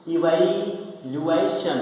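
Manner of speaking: इवैल्यूएशन drawn out slowly, syllable by syllable; slow model word. Shown as a demonstration. Teacher to class, modelling इवैल्यूएशन, very slow. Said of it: "इसको बोलते हैं".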